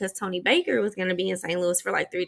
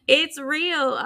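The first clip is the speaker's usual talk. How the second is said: laughing, higher and brighter; 7 semitones higher, 4 dB louder than usual. Real, not acted. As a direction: say it through a laugh. Repeats while laughing.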